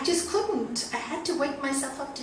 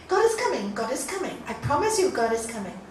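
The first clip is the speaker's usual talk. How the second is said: insistent; 3 semitones higher, 4 dB louder, faster than usual. Acted. Man insisting to the intruding dog.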